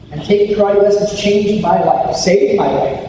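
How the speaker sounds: ordinary talk, nothing marked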